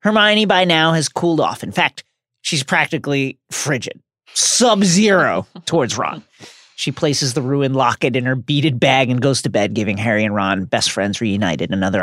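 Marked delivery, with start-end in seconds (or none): 4.3-6.2 slow laughing emphasis. Real, not acted. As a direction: chuckle through the joke. Joke on frigid Hermione.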